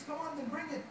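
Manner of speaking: high, challenging taunt; a scornful king daring the prophet; taunting pharaoh. Retold or imitated. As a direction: dare him to prove it. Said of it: "He says".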